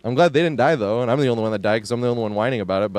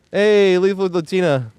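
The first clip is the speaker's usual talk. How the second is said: drawn-out greeting; 7 semitones higher, 4 dB louder, slower than usual. Real, not acted. Greeting a raid.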